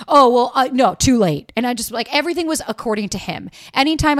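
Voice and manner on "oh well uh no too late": dismissive brush-off. Retold or imitated. Quoting his dismissive reply.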